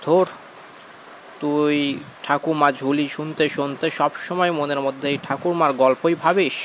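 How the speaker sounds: high, loud, disbelieving scolding; dismissive grandmother. Acted. Grandmother dismisses the boy's ghost tale. (অবিশ্বাসী ঠাকুমার চড়া গলায় ধমক)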